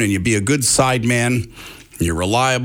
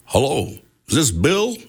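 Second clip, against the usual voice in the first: a lightly voiced older man calling, different timbre; Garth on the phone. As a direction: gently imitate the caller asking for Bill. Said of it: "and it goes".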